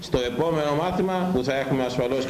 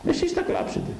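much higher, ominous warning; high warning cry. Real, not acted. Preacher warns in high voice. (ψηλή απειλητική προειδοποίηση)

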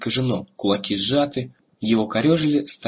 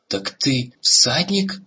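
astonished; 3 semitones higher, much slower than usual. Acted. Stunned discovery.

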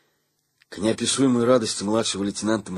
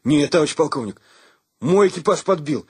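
categorical; 7 semitones higher, 4 dB louder than usual. A narrator's reading. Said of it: "категорически заявил Саня".

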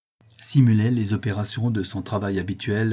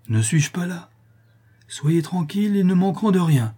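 earnest promise in raised pitch; emphatic reassurance; 9 semitones higher, 4 dB louder than usual. A narrator's reading. Gentleman promises to care for her family, emphatic reassurance. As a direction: reassure someone with urgent conviction. Protector reassures distraught daughter.

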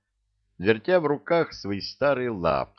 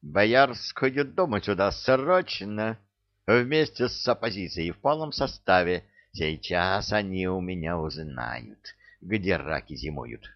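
usual speaking voice

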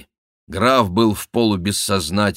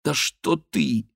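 high, drawn-out protest; taken-aback outcry, stretched; blurted out; 7 semitones higher, slower than usual. A narrator's reading. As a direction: burst out high in startled objection. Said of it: "вырвалось у Дианы".

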